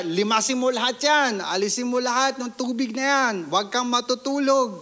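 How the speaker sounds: imitated high-pitched scolding orders; angry mother scolding. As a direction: lay down the orders like a cross mom, pitched high. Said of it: "Galit na galit yung ma-, mama ko". (gayang nanay na galit na nag-uutos)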